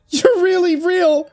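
very high, drawn-out cry; sobbed exclamation. A narrator's reading. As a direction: draw it out slowly, high and overcome. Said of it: "she sobbed".

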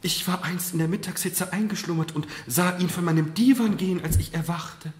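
high, loud, excited telling; agitated recollection. A narrator's reading. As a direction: blurt out a sudden memory. Marquise's sudden agitated recollection.

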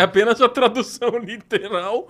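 laughing. Real, not acted. Explaining the joke name.

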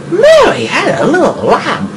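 high, swooping exclamation; sing-song high yelp; nursery-line outcry. Pretend. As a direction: cry out the nursery line in big pitch swoops. Repeats nursery line in fight.

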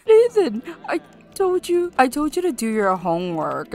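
sharp high yell of his name; scolding shout. Acted. Scolding child in game.

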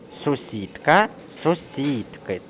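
СУСІДКА and СУСІДКИ both stressed on СІД; stress stays put. Shown as a demonstration. Teacher showing an exception, stress unchanged. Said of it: "наголос там не зміниться".

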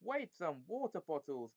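irritable, high-swooping protest; angry. A narrator's reading. Someone sat on after a fight, angrily protesting. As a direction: snap crossly from the bottom of a heap. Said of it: "came an angry voice".

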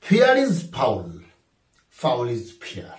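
drawn-out reading of the example; slow dictation. Shown as a demonstration. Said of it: "number sixteen".

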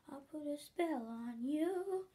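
a hint of a witch casting, slow; mock witch spell. Girl with a toy wand to everybody, slow mock witch voice. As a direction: drawl the spell out lightly like a play witch. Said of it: "she was like".

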